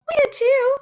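put-on high, loud childish protest; indignant cry. A narrator's reading. Child insists to doubting classmates, crying out indignantly. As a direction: cry out in your defence, pitch soaring. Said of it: "cried Bean".

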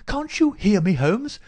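high, loud, impatient demand; insistent rousing call. A narrator's reading. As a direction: call hard to wake a sleeper. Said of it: "in the insistent tone of one who awakens".

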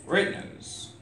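whisper. Acted. Whispered line inside poem.

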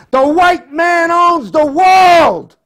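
high, loud declamatory shout; shouted proclamation. A narrator's reading. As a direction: proclaim it at full voice, pitched right up. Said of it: "when he pronounced".

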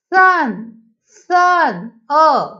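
teacher modelling the अ in सन; short "uh" vowel. Shown as a demonstration. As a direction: say सन, सन and pull out the "uh", अ. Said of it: "अ असा होतोय".

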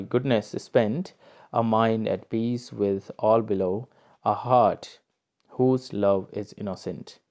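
slow, measured reading of verse; poem recitation. Acted. Teacher reading Byron's lines aloud to students, slow recitation. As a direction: read each line out slowly as a poem.

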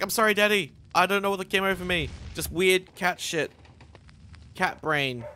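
a hint of a naughty cat saying sorry; sheepish cat voice. The cat apologizing to its owner, lightly sheepish. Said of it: "He's like".

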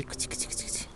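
soft cat call. Real, not acted. Parent softly calling the shy cat Rolly. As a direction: murmur it gently to the cat. Coaxing a frightened cat closer.

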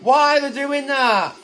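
distressed cry. Real, not acted. Anguished under fire.

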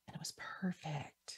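breathy, delighted whisper. Real, not acted. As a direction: whisper it like a happy secret. Savoring cold rainy fall weather.

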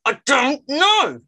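slow, drawn-out stubborn reply; imitating a stubborn sulky boy. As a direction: drag it out grudgingly. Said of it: "eventually went".

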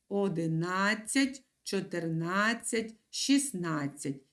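одинадцять, чотирнадцять, шістнадцять with the beat on на; teacher's model pronunciation; stress on на. Shown as a demonstration. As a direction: repeat the numerals, landing on на. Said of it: "ми ставимо наголос".

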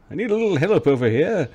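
high, hurried call; calling for help. Acted. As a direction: call over quickly for assistance. Player calls out for help.

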